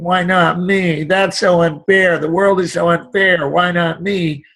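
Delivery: slow, whiny complaint about unfairness; whining tone. Shown as a demonstration. A speaker mimicking a whiner, slow and complaining. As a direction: whine it like a sore loser. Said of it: "shift that whining tone".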